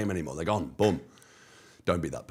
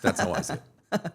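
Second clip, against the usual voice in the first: laughing; 13 semitones higher, 6 dB louder than usual. Real, not acted. Laughing at own joke.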